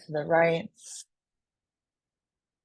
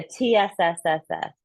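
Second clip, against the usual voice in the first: hissing lung sound. Shown as a demonstration. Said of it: "exhale the sound of the lungs".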